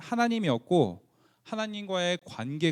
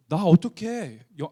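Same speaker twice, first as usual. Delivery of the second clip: whisper; 3 semitones higher, 7 dB louder, slower than usual. Retold or imitated. Rich man asking Jesus.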